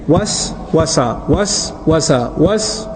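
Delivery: "Was, wasa" drawn out slowly, each syllable separate; slow syllable demo. Shown as a demonstration. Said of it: "You see the two syllables together?".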